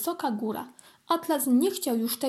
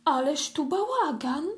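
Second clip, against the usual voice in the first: put-on exclaiming girl; 3 semitones higher than usual. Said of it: "zawołała mała Flora".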